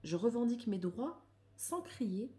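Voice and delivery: declaimed reading, phrase by phrase; measured read-aloud. Acted. Reading affirmations on anger to listeners, measured declamation. Reads card text aloud.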